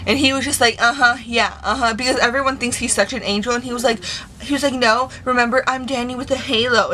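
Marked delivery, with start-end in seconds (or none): 0.8-1.9 dismissive mock agreement; sarcastic little uh-huhs. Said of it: "he was fucking mocking me". 4.7-6.9 smug mock innocence; lightly sing-song retold taunt. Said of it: "he was fucking mocking me".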